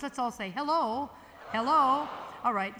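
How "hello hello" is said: plain chest-voice hello, a little louder. Shown as a demonstration. Yodel teacher showing the crowd the chest voice, full. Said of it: "your chest voice, your hello voice".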